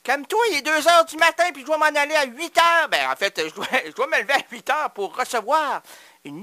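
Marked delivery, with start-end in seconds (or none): 0.0-2.9 mock pleading. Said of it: "j'ai dit à mon Philippe".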